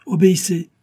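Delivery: loud, high shout; shouted order. Acted. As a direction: bark the single word. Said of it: "cria Joey".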